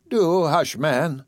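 put-on chiding old auntie. Dicey hushes the defense.

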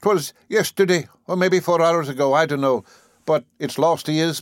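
hammed-up Irish mother's lament; distraught Irish mother. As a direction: plead like a frantic mother. Distraught mother voiced in story.

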